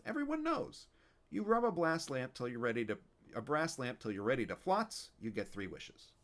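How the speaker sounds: loud, cranky Yiddish grandpa; Yiddish old man. Acted. Fischel voice continues.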